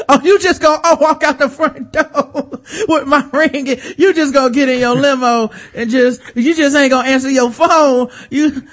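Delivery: high, loud disbelief building to a comic outburst; mock mounting panic. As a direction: escalate from incredulous protest to high-pitched demand. Kraft's panic building as ring leaves.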